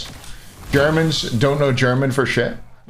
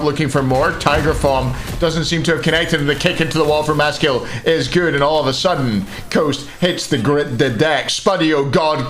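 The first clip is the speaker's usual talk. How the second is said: running match commentary, a little lifted; steady live caster delivery; esports play-by-play. Real, not acted. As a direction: call the action as it unfolds.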